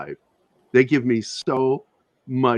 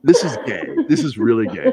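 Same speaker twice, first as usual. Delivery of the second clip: laughing while insisting; amused insistence; 4 dB louder than usual. Real, not acted. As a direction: giggle through it, a bit louder.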